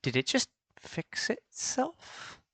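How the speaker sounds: high, slow, hopeful disbelief; hopeful surprise. Real, not acted. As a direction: ask it with wary hope. Hoping broken computer recovered.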